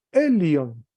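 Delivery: "elion" weighted on the opening E; stress on first syllable. Shown as a demonstration. Teacher reviews for class, stress on E in "elion". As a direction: lead hard with the E of "elion". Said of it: "tiene la fuerza en la primera sílaba".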